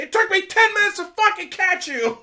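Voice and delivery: very high, loud frustrated shout; exasperated cop yell. Retold or imitated. Cop shouting after the car that sped off, high loud yell.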